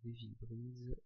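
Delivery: English font name, French accent; French speaker's English. Real, not acted. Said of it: "excusez-moi de mon accent anglais".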